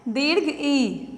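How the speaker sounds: "ई" drawn out slowly as a long vowel. Shown as a demonstration. Teacher to young pupils, naming the long vowel, slow. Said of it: "वो दीर्घ ई रहेगा".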